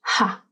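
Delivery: "ha" alone as a short syllable; stressed first syllable. Shown as a demonstration. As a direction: isolate "ha" from the word. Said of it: "the stress is on the first syllable".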